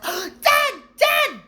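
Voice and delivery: put-on loud, high, urgent child's call; excited calling. A narrator's reading. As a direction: shout to Dad to get his attention. Dudley calls his father urgently.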